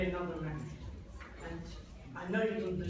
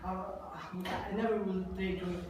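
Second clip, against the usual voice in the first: begging; 7 dB quieter than usual. Acted. Father begs forgiveness.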